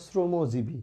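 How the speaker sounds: শ্রমজীবী begun with sro, dental s; pronounced form. Shown as a demonstration. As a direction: model শ্রমজীবী with s, not sh. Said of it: "তাই উচ্চারিত রূপটা দেখো". (শ্রমজীবী-র শ দন্ত স-এর মতো উচ্চারণ)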